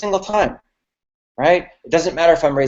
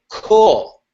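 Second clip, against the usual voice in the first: high casual cool; 6 semitones higher, 4 dB louder than usual. Shown as a demonstration. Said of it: "I'm just gonna say".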